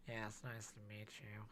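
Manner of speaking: lightly voiced creepy stranger, slow; a hint of a creepy weirdo, slow; creepy character. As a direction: introduce yourself slowly, a bit odd. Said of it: "that sound creepy".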